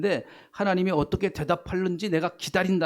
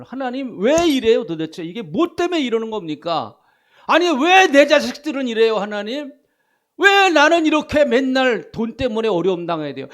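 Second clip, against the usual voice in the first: loud, high, exasperated plea to God; questioning God; 6 semitones higher, 9 dB louder than usual. Shown as a demonstration. Preacher acting a believer demanding answers from God, loud and exasperated. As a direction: cry out your complaint to heaven. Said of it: "하나님 앞에 질문 좀 하세요".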